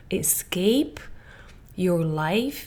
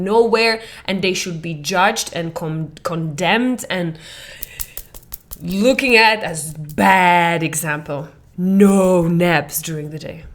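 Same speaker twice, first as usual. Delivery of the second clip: a hint of a strict disapproving parent; lightly voiced strict parent condemning naps; stern family voice; 4 dB louder than usual. Voicing family's strict view.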